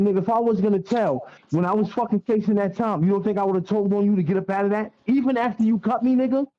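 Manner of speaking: retold argument, voice pushing up and up; heated retort. Retold confrontation in the bullpens.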